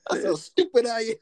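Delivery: whispered, laughing at himself; whispered self-mockery. Real, not acted. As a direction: breathe it out as a self-deprecating punchline. Self-mocking punchline.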